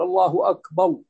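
أكبر with its final r softened away; lisped raa. Shown as a demonstration. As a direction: blur the r at the end of أكبر toward another sound. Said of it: "يعني الراء مثل يقول". (نطق راء "أكبر" بلثغة)

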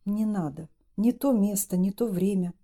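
plain reading voice

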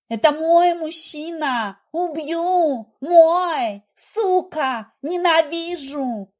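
high, loud, frenzied screaming; jealous wife screaming during a fight; hysterical rage. A narrator's reading. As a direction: lose all control, shriek it.

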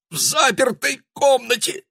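высокий испуганный стон; стонет от ужаса; groaning. A narrator's reading. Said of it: "простонал Шанданьяк". (испуганный стон)

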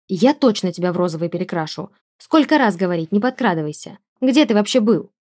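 loud exasperated scolding. Acted. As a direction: tell off the sneaky pet. Scolding the sneaking familiar.

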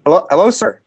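a lightly put-on polite manager; mildly sugary manager apology; fake manager voice. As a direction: sound like a smooth manager calling back. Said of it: "let me call back as your manager".

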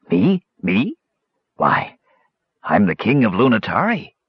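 a hint of a grand old castaway; lightly voiced scrawny king announcing himself; mild mock-regal proclamation; proclaiming. A narrator's reading. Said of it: "proclaimed the tattered scarecrow".

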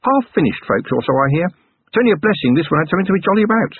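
high motherly voice with a touch of sadness; lightly sorrowful kindly schoolmistress; old dame, said sadly. A narrator's reading. Schoolmistress showing young Vimes the goblin, high and mildly sad. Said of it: "the dame had said sadly".

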